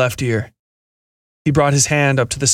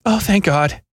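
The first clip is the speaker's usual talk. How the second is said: higher female voice, sighing relief; relieved sigh; 7 semitones higher, slower than usual. A narrator's reading. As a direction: let it out on a breath of relief. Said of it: "she said with a sigh".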